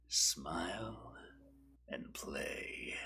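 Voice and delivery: breathy whisper of a slogan. Acted. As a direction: whisper it like a secret.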